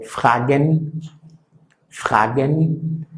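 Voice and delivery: fragen: r gutural en medio; r gutural alemana. Shown as a demonstration. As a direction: di fragen con r de garganta. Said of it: "al principio o en medio es gutural". (fragen con r uvular)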